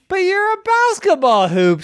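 high, disbelieving; incredulous. Acted. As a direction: point out the obvious in disbelief. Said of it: "said Hope".

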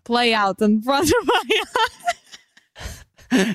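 cartoonish mock Russian accent; badly faked Russian, cartoon style. Finishing the line as immigrant parent, bad Russian accent. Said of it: "you are giving me Despicable Me".

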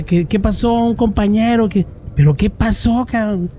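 alarma imitada. Retold or imitated. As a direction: demand news as if hearing it on the radio. Retold alarmed reply on the radio. (pregunta alarmada, imitada en tono agudo)

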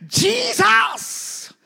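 screamed high and loud; a panicked shout for help; high desperate scream. Retold or imitated. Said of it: "She just screamed".

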